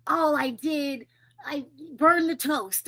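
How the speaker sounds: high-pitched, hammed-up dismay; mock self-reproach. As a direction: act out beating yourself up. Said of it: "And then to themselves".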